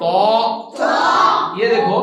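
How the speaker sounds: तो said thick and loud; teacher's heavy तो; heavy emphatic ṭā. Shown as a demonstration. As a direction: sound तो full and heavy. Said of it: "मोटा पढ़ेंगे".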